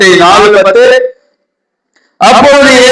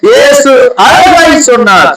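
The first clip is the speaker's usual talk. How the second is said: proclaiming; 5 semitones higher, much slower than usual. Real, not acted. Preacher repeats louder.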